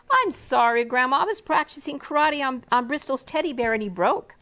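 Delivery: put-on a kid owning up to grandma; child voice, sorry.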